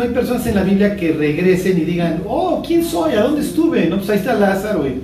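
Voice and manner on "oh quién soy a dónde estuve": dazed soul. Retold or imitated. Mocking confused returned soul.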